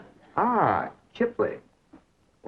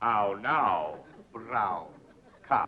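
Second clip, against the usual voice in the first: "How now, brown cop?" trailing off softer; fading diction drill; 3 semitones lower, 6 dB quieter, much slower than usual. Shown as a demonstration. The tutor repeats the drill, "How now, brown cop?" fading. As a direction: let "brown cop" die away. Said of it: "practice diction and intonation".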